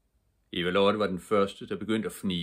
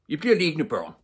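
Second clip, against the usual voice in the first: put-on loud, high command to the children; shouted order; 10 semitones higher, 7 dB louder than usual. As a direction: call it out firmly to the kids. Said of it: "råbte politikommissæren".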